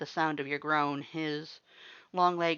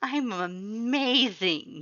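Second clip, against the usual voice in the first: giggling; 6 semitones higher, much slower than usual. A narrator's reading. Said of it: "you giggled".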